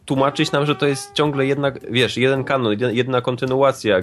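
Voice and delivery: annoyed rant. Real, not acted. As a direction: vent your irritation, pitch up. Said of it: "twoim rage'em".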